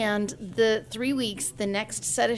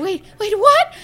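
high, then a loud squeaky what; shocked realization; 12 semitones higher, 12 dB louder than usual. Retold or imitated. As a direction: let the penny drop into a yelp. Mom suddenly recognizing her daughter.

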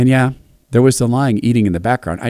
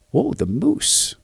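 mock awe; 8 semitones higher, 5 dB quieter, much slower than usual. Narrator's awed reply to girl.

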